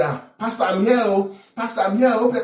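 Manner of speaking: a lightly hammed-up late churchgoer calling out to the pastor; mock latecomer. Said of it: "That's not the attitude".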